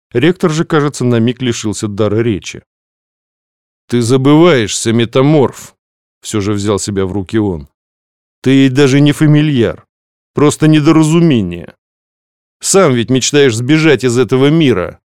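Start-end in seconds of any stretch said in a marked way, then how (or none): 3.9-5.8 cold rebuke. Acted. Rector rebukes the familiar. 8.4-15.0 scornful rebuke. Acted. Rector scorns the familiar.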